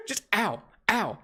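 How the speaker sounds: giggling mock cries of ow; laughing while yelping ow; laughing through pain. Real, not acted.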